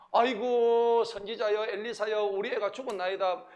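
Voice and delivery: 첫마디 '아이고'를 높고 크게 외치는 가벼운 애원 흉내; 발을 붙잡고 매달리듯 읍소. Retold or imitated. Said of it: "발끄덩이를 잡고 지금 애원하는 거야". (가볍게 흉내 낸 애원)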